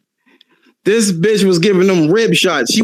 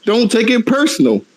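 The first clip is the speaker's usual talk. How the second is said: mock calm mother. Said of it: "She was like".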